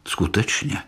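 ordinary delivery, nothing marked

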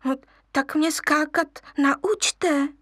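high, slow wheedling plea; a little lion coaxing the monkeys; wheedling cub. Acted. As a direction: beg sweetly like a small cub. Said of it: "loudil lvíček".

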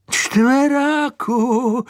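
high, long-drawn surprised cry of the name; old woman exclaims to the horse in disbelief, high and drawn out; surprised exclamation. A narrator's reading. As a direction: call out the name in slow, high astonishment. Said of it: "zvolala paní Herncová".

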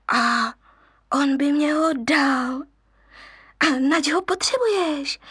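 a cub puzzled by the request; curious cub. Acted. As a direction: ask eagerly. Cub asks.

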